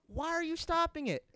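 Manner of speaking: high, pressing question; annoyed at the pause; mock salesman; pitchman. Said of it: "He says".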